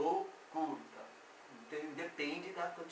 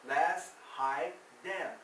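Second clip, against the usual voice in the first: slow model phrase; much slower than usual. Shown as a demonstration. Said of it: "Menos alto".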